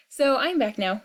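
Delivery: breathless after running back; out of breath. Real, not acted. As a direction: speak while catching your breath. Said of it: "Sorry, I'm out of breath".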